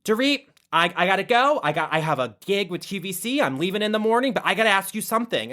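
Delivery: quick, urgent acted plea; imitating Lisa Rinna. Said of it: "she's like".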